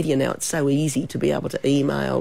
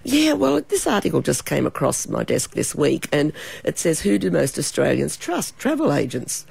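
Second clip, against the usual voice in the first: speaking with a cold; hoarse voice. Real, not acted. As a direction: talk through a sore throat. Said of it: "a bit of a cold and a sore throat".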